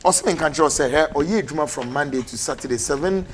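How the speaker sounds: brisk, punchy advert voice; lively sponsor read on air; radio ad read. Acted. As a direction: sell the clinic like a radio announcer. Host reads sponsor clinic ad.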